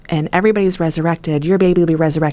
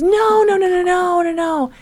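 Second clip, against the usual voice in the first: sing-song higher no, no, no; high insistent denial; 13 semitones higher than usual. Retold or imitated. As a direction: brush her off in a high dismissive lilt. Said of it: "She goes".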